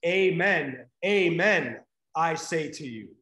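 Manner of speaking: Amen, amen said loud and ringing, each with a falling close; ringing Greek rendering; emphatic Amen. Retold or imitated. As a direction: proclaim Amen, amen with full authority. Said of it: "So literally what Jesus says is".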